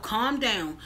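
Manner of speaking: soft, hushed calm down to herself; self-soothing murmur. Retold or imitated. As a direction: talk yourself down quietly. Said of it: "I have to keep telling myself".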